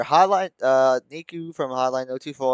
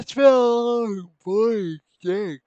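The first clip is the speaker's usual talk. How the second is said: sore throat voice; 8 semitones higher, 5 dB louder, much slower than usual. Acted.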